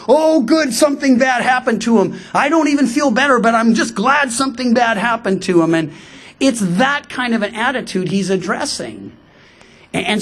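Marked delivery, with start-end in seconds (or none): 0.1-5.7 mock gloating. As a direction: gloat over a rival's bad luck. Voices a grudge-holder glad of misfortune.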